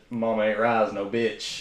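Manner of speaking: catchphrase. Retold or imitated. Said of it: "an inside joke".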